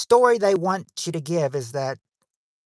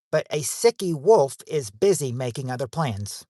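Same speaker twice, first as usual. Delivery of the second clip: storybook reading. Shown as a demonstration. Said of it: "I'm gonna tell you the line of the story".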